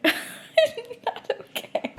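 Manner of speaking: voiceless, broken by crying; tearful breakdown. Real, not acted. Reader overcome by the quote, voice giving out in tears. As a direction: squeeze the words out through tears.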